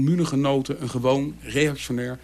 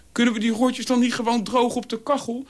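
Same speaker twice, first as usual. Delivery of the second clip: put-on high, pleading little-boy voice; tearful child; 9 semitones higher than usual. A narrator's reading. Crying boy hoping to save the wet firecrackers, tearful. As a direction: plead as if close to tears. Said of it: "met hele grote tranen in zijn ogen".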